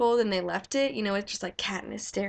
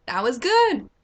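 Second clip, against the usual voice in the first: mock creepy satisfaction; 3 semitones higher, 6 dB louder than usual. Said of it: "and I'm just like".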